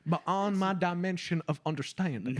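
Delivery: lightly voiced baffled landowner; a hint of an old-fashioned gentleman; old-time landowner. Landowner failing to understand feminism, lightly put-on bafflement. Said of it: "eighteen hundreds, like, landowner".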